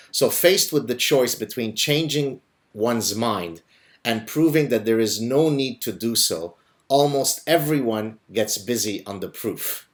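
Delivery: measured, deliberate quote reading; slow read-aloud with pauses between phrases. Real, not acted. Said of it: "let me read it slowly".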